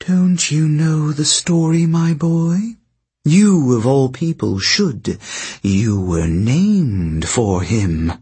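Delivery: lightly voiced sly sorceress; silky, knowing queen telling her tale; scheming princess voice. Princess teases Jason.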